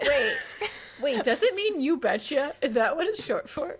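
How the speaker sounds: asking through giggles; real laughing question. Real, not acted.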